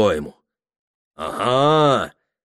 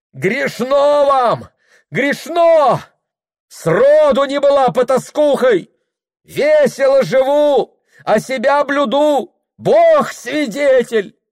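very high, loud, slow wailing; anguished crying out; 7 dB louder, slower than usual. A narrator's reading. Anfisa shouting after the mistress, anguished. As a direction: cry out as if tearing her heart. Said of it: "закричала Анфиса надрывно".

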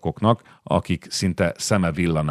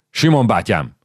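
calling out; 4 semitones higher, 3 dB louder than usual. Acted. Officer calling the old soldier to him, a bit louder. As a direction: call his name across the column, a touch louder.

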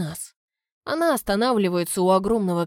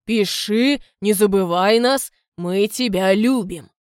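hammy loving father; 5 dB louder than usual. Acted. Duke's false farewell words.

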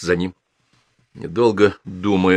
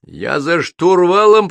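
high, loud, drawn-out holler; triumphant yell; 10 semitones higher, 5 dB louder, slower than usual. A narrator's reading. Captain announcing he is driving, a long loud yell. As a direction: bellow it with the vowels stretched. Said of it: "прорал Петровский".

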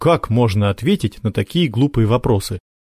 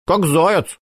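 put-on little boy voice; 8 semitones higher than usual.

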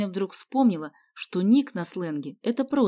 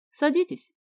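higher, courteous invitation; polite; 9 semitones higher, 3 dB louder than usual. A narrator's reading. Carter offering his guests a seat, polite. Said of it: "вежливо сказал Картер".

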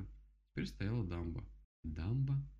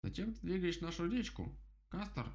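higher, pushy question; impatient woodpecker; 10 semitones higher than usual. Acted. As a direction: demand it impatiently. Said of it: "нетерпеливо спросил дятел".

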